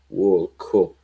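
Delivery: WORLD CUP with an Irish "coop" vowel; Irish accent. Shown as a demonstration. Recalling Roy Keane's exit, mock Irish accent.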